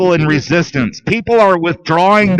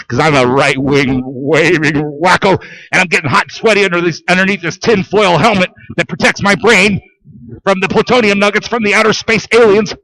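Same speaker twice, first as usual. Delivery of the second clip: mock wacko voice. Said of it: "sarcastic self-caricature".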